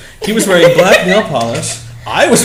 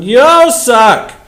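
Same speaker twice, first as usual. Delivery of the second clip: mock insult; 8 semitones higher, 6 dB louder than usual. Reading a fanfic insult.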